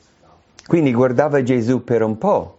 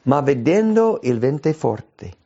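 normal talking voice

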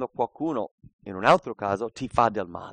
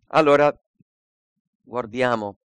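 usual speaking voice

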